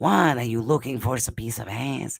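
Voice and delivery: put-on French accent. Quoting an actor said to sound like Peter Lorre: Christopher Lambert impression. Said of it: "he sounds just like Peter Lorre".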